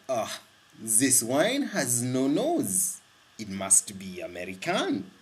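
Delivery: slow mock French accent, lightly done; bad French accent. Mimicking French tasters judging the wine, in a mild, slow French accent. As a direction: drawl it out like a snooty French sommelier, a mild French accent. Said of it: "excuse my bad accent".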